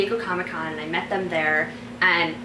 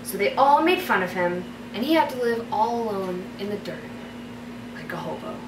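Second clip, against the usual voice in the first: story narration. Acted. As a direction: read it like a bedtime story. Reads her fairy tale aloud.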